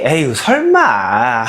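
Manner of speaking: slow, sighing doubt; a weary, disbelieving sigh; doubtful sigh. Acted. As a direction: sigh it out slowly, not believing. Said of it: "이런 생각을 하고".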